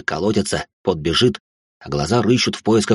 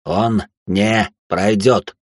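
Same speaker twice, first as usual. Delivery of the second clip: very slow, each word hammered, stress on пройдёт; father's cold final word; clipped and firm; much slower than usual. A narrator's reading. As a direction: rap out every syllable. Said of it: "отчеканил отец".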